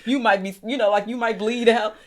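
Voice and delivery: mock overconcern. Nurse overreacting to a cut finger, mock alarm. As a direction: pile on pretend medical alarm. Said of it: "If we was like that".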